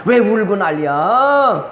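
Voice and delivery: mock grumbling, endings dragged out; slow, exaggerated complaint about the racket; 엘리 제사장. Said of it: "그것도 모르는 엘리 제사장 목사가요". (말끝을 길게 끄는 짜증 연기)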